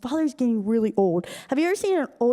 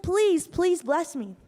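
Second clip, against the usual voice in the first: higher, slow begging; imitated tearful begging; mock bawling plea; 4 semitones higher, slower than usual. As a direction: drag out the pleading, pitched up. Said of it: "Esau just starts bawling".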